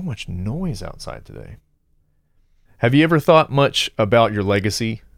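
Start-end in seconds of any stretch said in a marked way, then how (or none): 2.8-5.0 clicky, wet-mouthed delivery; wet mouth clicks. Real, not acted. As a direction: lips and tongue smacking audibly. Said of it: "I feel like I'm making so many mouth noises".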